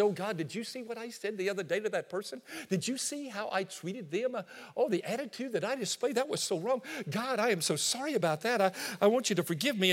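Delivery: soft pleading prayer; quietly confessing to God; hushed confession. Acted. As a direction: believer praying softly after a bad day.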